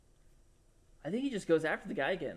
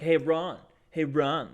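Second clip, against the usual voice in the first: mock edgy comic, a bit louder; trying to be edgy; 7 dB louder, slower than usual. Comedian calling out the host, imitated edgy jab. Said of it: "trying to be all, like, edgy".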